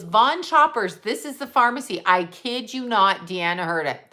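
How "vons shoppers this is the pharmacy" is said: mock sweet intercom voice over the store speakers; mock intercom announcer. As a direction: ham up a pharmacy PA call. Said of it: "She goes".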